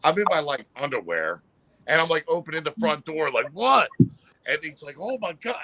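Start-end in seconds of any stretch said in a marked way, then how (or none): 3.5-3.9 loud, high-pitched "what"; startling the caller. Retold or imitated. Opening the front door late at night to a stranger, startling bark. 5.0-5.6 put-on scared drunk. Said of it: "I scared the crap out of".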